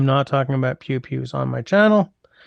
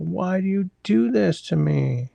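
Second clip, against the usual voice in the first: slow, higher, drawn-out exasperated plea; 5 semitones higher than usual. Real, not acted. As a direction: plead with the screen, drawn out. Repeats complaint, drawn out.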